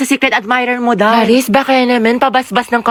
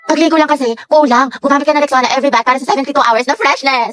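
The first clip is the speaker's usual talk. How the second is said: fast product pitch; ad read; faster than usual. Acted. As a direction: rattle off the promo. Rexona ad line.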